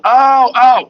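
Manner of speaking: put-on high pained old man's ow, ow; old man groaning. Patient down the hall, imitated, groaning in pain. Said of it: "I hear this old dude".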